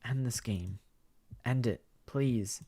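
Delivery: slow, broken begging; a drained, hopeless please; hollow plea. Acted. Karma's quiet plea.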